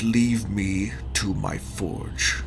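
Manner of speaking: slow giant voice. Acted. Giant smith dismisses them.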